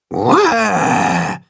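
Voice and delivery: demonstrated roar. A narrator's reading. Tacho demonstrates the roar to Willi, mock roar. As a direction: show him how to roar scary. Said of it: "macht Tacho ihm vor".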